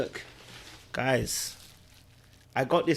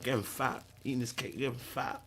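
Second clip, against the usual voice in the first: softer mumble about getting fat; soft self-mocking; 8 dB quieter than usual. Real, not acted. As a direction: grumble to yourself. Muttering self-mock.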